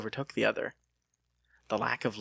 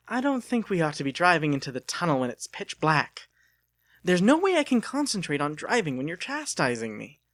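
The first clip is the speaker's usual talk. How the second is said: rising irritation, getting higher and louder; irritated retort; 5 semitones higher, 4 dB louder than usual. Acted. Lucas snapping at Delia who chastises his driving, irritated. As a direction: push back, annoyed and defensive.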